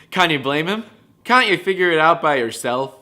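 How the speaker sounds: mock outrage. Reading comment mockingly.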